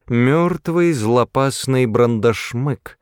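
a drawn-out proclamation; announcing. A narrator's reading. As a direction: declare it solemnly, drawing out «Мёртвый». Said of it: "объявил он".

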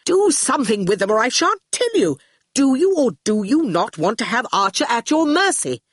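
impatient, imperious demand. Acted. Torquil bargains with Shine over Archer, impatient. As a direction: press for action, pitch jumping up. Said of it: "twirled his golden sceptre impatiently".

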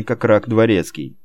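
usual speaking voice

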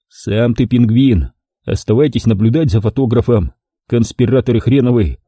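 раздражённо; irritated reply. Acted. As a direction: snap at the clumsy partner. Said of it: "раздражённо ответил я".

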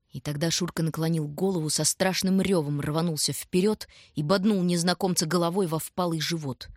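plain reading voice

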